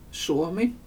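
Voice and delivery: Suomi with u sliding into o; gliding diphthong. Shown as a demonstration. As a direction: glide from u to o in Suomi. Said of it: "den ena glider över i den andra".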